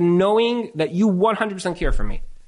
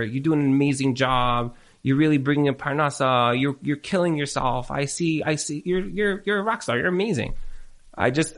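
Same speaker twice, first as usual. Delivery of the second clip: caring spouse; 3 semitones lower than usual. Shown as a demonstration. Demonstrating for the couples how to talk, gently caring. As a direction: show your spouse you truly see them. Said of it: "Say it like that".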